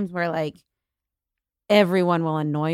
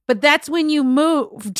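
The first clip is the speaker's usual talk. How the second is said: deadpan retort; 5 semitones higher, slower than usual. Retold or imitated. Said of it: "And I was like".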